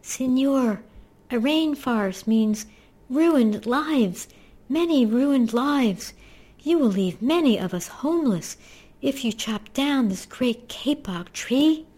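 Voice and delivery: very high, piping little voice; squeaky tree frog. A narrator's reading. Tiny tree frog pleads in the man's ear, squeaky and piping. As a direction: pipe it up high, each phrase swooping. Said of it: "In a squeaky voice, he piped".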